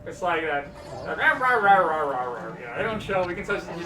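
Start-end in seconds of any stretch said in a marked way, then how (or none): 1.2-2.6 mocking rah noises. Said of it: "really mocking her".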